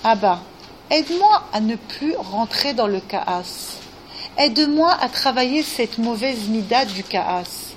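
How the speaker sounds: slow, heartfelt plea to God; slow earnest prayer. Shown as a demonstration. Counselor shows how to pray for help against anger, slow and earnest. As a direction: model the prayer slowly, as if truly asking. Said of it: "Est-ce que tu demandes à Hachem".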